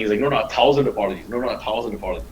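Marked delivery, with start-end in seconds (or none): 0.2-1.3 put-on Indian accent. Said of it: "doing the Indian accent". 1.3-2.3 put-on Indian accent. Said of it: "doing the Indian accent".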